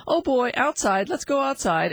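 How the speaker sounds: upbeat owner inviting the dog out; happy cheer. Shown as a demonstration. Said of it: "feeling happy and saying something like".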